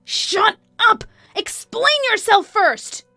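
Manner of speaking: very high, loud, stretched-out screech; enraged mistress. Acted. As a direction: shriek the order at her. Mistress demands explanation.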